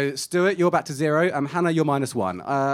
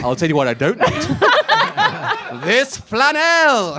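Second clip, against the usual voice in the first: put-on Irish accent; 7 semitones higher than usual. Playing Brad Pitt in character.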